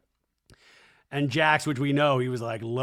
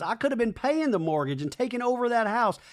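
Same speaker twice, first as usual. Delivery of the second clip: imitating Brittany; 8 semitones higher than usual. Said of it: "Brittany in a talking head goes".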